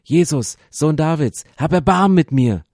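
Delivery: high, very loud cry for mercy; desperate calling out. Acted. Blind Bartimäus calls to Jesus, loud pleading shout. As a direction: shout it out to be heard over a crowd. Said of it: "fängt Bartimäus an zu rufen".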